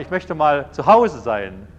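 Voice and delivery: loud, slow, emphatic pushback; insistent plea. Retold or imitated. Man defending his weekend at home, exasperated insistence. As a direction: stand your ground, slowly and loudly.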